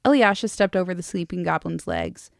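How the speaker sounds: measured audiobook-style reading; story narration. A narrator's reading. Reading a novel to a friend, story narration. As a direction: read the dialogue lightly in character.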